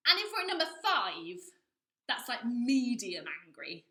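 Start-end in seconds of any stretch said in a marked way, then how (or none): none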